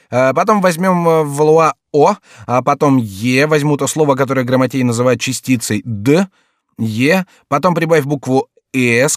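dictating letters with lifted, emphatic tones; lightly voiced jester. A narrator's reading. Jester dictating letters to a courtier, emphatic and lively. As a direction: lightly play a fool teaching spelling.

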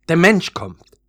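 high, loud cry of alarm; alarmed warning. A narrator's reading. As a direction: warn the others urgently. Leaves warn human approaches.

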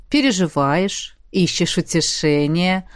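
low, slow suggestive tease; slow knowing innuendo; meaningful insinuation. A narrator's reading. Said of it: "многозначительно произнёс Эммет". (многозначительно, медленно и низко)

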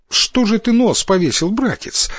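high-pitched, tender question to a little brother; caring sister. A narrator's reading. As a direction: ask kindly what is wrong, voice lifted. Sister asks sad brother kindly.

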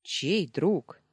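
lightly incredulous query; amused disbelief. A narrator's reading. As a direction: ask it as if half amused. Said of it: "усмехнулся он".

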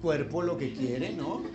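a hint of mock open-mindedness; false Christian. Preacher imitating a Christian asked for an opinion, lightly mocked false Christian. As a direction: lightly imitate someone eager to agree. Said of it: "¿Y tú qué opinas de los homosexuales?".

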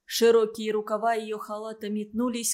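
plain reading voice

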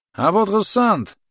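high, slow shout across the field; cheerful loud greeting called from afar. A narrator's reading. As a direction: call out to the girl, stretching it. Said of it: "крикнул Бурнакер девушке".

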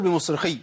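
بمصرخي ended short on khi; abrupt ending on بمصرخي; missing ya. Shown as a demonstration. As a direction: drop the held y from the end of بمصرخي. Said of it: "فين الياء؟".

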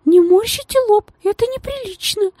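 very high, strict reprimand; a hint of a stern governess, high; stern lady. A narrator's reading. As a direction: correct the girl sternly. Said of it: "строго сказала дама".

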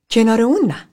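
high, loud "not next to him"; sharp refusal. Acted. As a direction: snap it out in disgust. Pam refuses seat near Philip. (امتناع تند و بلند)

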